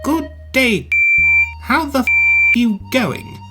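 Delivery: high, stiff British enunciation; uptight British. Acted. British engine copies an Aussie greeting, uptight British. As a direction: sound each word separately, very British. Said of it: "You Poms are so uptight".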